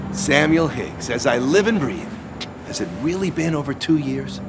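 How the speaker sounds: high-pitched, effusive surprise at a reunion; delighted greeting. Acted. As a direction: greet a long-lost acquaintance, voice lifted high. Greeting long-absent old acquaintance.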